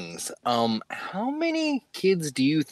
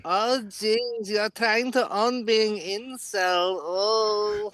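mock teasing; 8 semitones higher, much slower than usual. Mocking high teasing voice.

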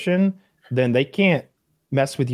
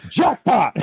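hammed-up high-pitched glee; mock delighted cop; 11 semitones higher than usual. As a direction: crow it like you just won. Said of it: "the guy goes".

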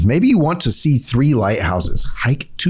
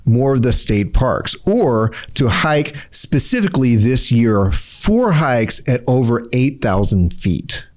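slow, deliberate goal statement; slower than usual. Shown as a demonstration. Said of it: "But if you say".

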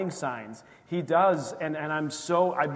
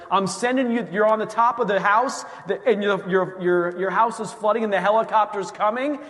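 higher and louder, a patient divine messenger; Holy Spirit voice; 5 semitones higher, 6 dB louder than usual. Retold or imitated. The Holy Spirit telling a stubborn believer help is coming, raised and louder. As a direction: announce the rescue like the voice of God. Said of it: "the Holy Spirit is like".

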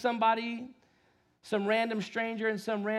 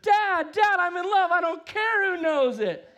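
much higher, louder excited shout; Elf impression; 12 semitones higher, 9 dB louder than usual. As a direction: gush like an overjoyed elf. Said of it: "It's like Elf".

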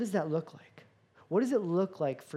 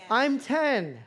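mock defensive; 4 semitones higher, 3 dB louder, slower than usual. Mock defence to a judging audience.

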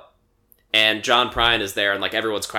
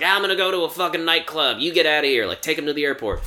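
higher-pitched mock ranting; retold angry outburst; 6 semitones higher than usual. Retelling husband storming off after a fight, mock angry. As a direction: act out a fed-up man giving orders.

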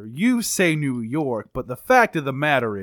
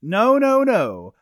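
quick protest; 7 semitones higher, 5 dB louder, slower than usual. Acted. Suspect protesting accusation.

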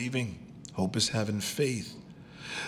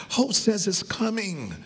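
loud proclaiming; 11 semitones higher, 4 dB louder than usual. Real, not acted. Shouted after whisper.

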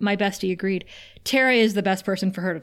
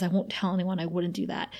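softly retold promise, dropping lower; understated, low and soothing; gentle reassurance; 3 semitones lower, 6 dB quieter than usual. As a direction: reassure a crying friend, letting it fall quiet. Retelling friend reassuring crying Buffy.

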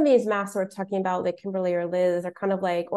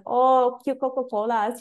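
imitating Midwesterners, higher-pitched; Midwest accent; 5 semitones higher than usual. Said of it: "repeating the stuff that the people in the Midwest were saying".

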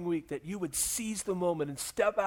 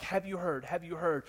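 softer, murmured repeat; hushed gossip; 7 dB quieter than usual. Acted. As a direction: pass the rumour on under the breath. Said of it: "people were all stirred up".

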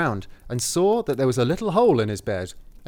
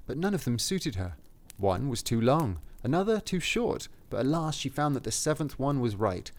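measured fairy-tale reading; story narration; 5 semitones lower, 7 dB quieter than usual. A narrator's reading. Reading the cottage description to a co-host, story narration. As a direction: read it aloud as a storybook.

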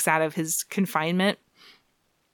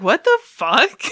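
higher, louder, slow outraged; mock indignant; 7 semitones higher, 6 dB louder, slower than usual. Luke Cage reacts to Jessica's ex, mock outrage. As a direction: drag it out, offended. Luke Cage's jealous outburst.

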